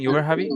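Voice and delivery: "You were happy" with a questioning rise at the end; statement as question. Shown as a demonstration. Teacher correcting the example of a way to ask, rising tune on "You were happy". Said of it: "this is a way to ask".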